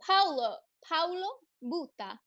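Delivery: Italian-accented reading of the name. Real, not acted. Host reading a viewer's name off the chat, Italian accent. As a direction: put an Italian lilt on the name. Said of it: "said it with an Italian accent".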